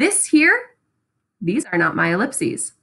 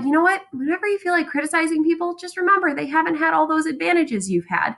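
fatherly advice; 7 semitones higher, faster than usual. Acted. Voicing Nick's dad giving advice.

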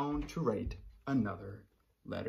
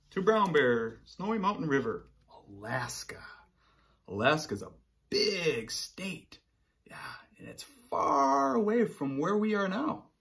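letter-reading voice; 4 semitones higher than usual. Acted. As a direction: read the letter as the lonely polar bear. Reading letter to brown bear.

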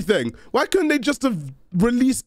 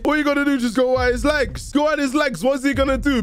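hyped shouting; 4 semitones higher than usual. Real, not acted. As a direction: shout it like a fight coach. Hyped trash talk about fighting.

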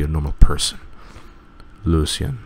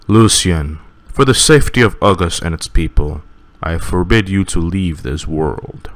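stern king. Acted. False king forbidding the family to leave, stern. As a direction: pronounce it like a cold ruler.

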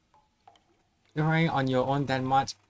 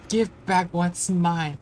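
slow menacing demand; 5 dB louder, slower than usual. Acted. Ghost demands its property.

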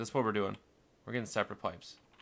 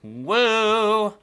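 high, loud whoop into apology; whoop, then apologise at high volume; high-pitched, loud excitement; loud whooping outburst; 11 semitones higher, 11 dB louder than usual. Real, not acted.

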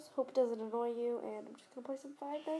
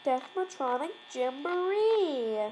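announcer voice; 6 dB louder, much slower than usual. Pretend. Announcing silly title.

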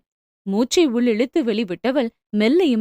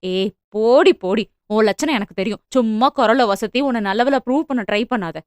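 dismissive. Acted. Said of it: "என்றாள் அலட்சியமாக".

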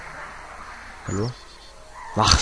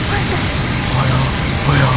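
mock fire shrieks; 5 dB louder, slower than usual. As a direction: squeal fire over and over in mock alarm. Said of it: "Und alles Feuer schreien".

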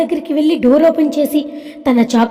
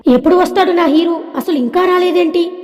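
higher-pitched, lightly impatient longing; eager impatience; 4 semitones higher than usual. Acted. Mallika waiting for her lover, mildly impatient. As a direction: wonder aloud with lifted, eager pitch.

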